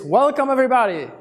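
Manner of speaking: very warm greeting. Shown as a demonstration. Coach shows an overly warm greeting, gushing. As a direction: throw the arms open and gush. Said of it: "very warm greetings, people doing like this".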